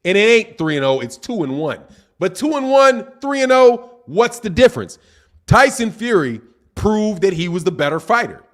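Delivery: deliberate, spelled out in short phrases; slow for y'all. Real, not acted. Host spelling out the result for doubting commenters, slowly. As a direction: say it slowly, with a pause after each point. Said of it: "let me say this slowly for y'all".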